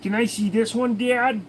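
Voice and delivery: put-on lightly done Boston kid accent, nagging; Boston accent, asking over and over. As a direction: repeat it like a pestering Boston kid. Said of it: "they're all from Boston".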